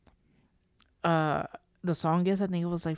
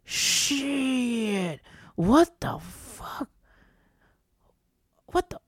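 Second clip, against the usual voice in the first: slow stunned "what the fuck", last words jumping far higher; alarmed disbelief, ending in a much higher squeak; shocked; 6 semitones higher, much slower than usual. Retold or imitated. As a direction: retell the moment the thumb froze. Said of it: "And I was like".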